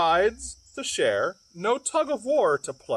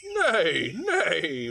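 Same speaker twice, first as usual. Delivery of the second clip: whinnying horse. Acted. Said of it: "whinnied the horse".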